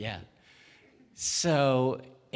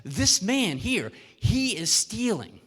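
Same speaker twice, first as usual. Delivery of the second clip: accusing baker; 7 semitones higher, 5 dB louder, slower than usual. Acted. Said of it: "the baker speaks up and says".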